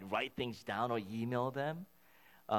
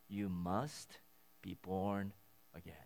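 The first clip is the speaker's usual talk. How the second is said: simply said; 6 semitones lower, 8 dB quieter, slower than usual. Shown as a demonstration. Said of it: "he sort of simply says".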